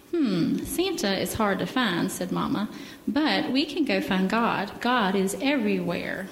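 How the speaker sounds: gentle storybook reading; children's story time in church. Acted. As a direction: read the bear story to the kids.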